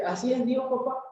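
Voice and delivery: lightly voiced child asking papá. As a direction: ask it like a curious small son. Child asks father, acted.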